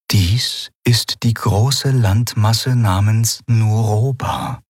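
slow, measured, lightly hushed voice; whispered guidance. A narrator's reading. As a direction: guide them slowly, as if murmuring in an ear. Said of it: "hörte Enriel Yunnan flüstern".

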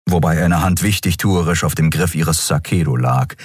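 ordinary delivery

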